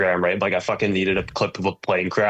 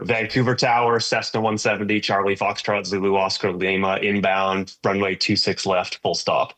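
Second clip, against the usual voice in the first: pilot radio call. Shown as a demonstration. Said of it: "when I'm coming into land, I'll be like".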